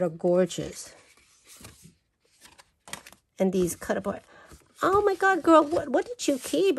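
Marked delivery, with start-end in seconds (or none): 4.8-6.8 high, excited squeal at a friend; thrilled exclamation. Real, not acted. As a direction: squeal at her friend in disbelief.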